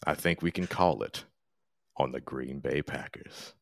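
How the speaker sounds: smooth midnight DJ murmur, deep and easy; Midnight Jambalaya. Shown as a demonstration. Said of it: "I'll use my late night radio voice".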